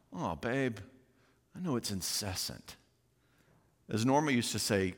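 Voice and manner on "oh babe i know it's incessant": softer, tender understanding; loving reply. Shown as a demonstration. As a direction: gently soothe the tired wife. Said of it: "The loving thing to do is to try it on".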